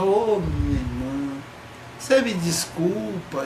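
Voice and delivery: slow whiny begging, lightly done; mock pleading. Apologizing to her sister, slow mock-pitiful plea. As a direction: beg like a sad puppy, half-hammed. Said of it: "chega chorando com aquela cara de cachorro pidão".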